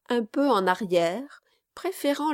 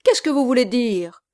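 stammered; 4 semitones higher, 8 dB louder, faster than usual. Acted. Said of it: "le gentleman balbutia".

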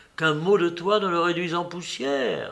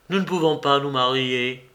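strong, curt voice; 4 dB louder than usual. Acted. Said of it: "d'une voix forte et brève".

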